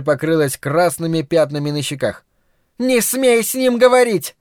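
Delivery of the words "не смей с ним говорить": shouting. A narrator's reading. Carla yells at her daughter, much higher. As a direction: yell the order at her. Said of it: "закричала она".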